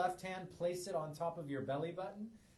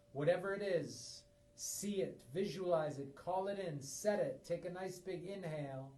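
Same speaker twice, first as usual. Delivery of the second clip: guided meditation. Acted. Opening guided breathing meditation.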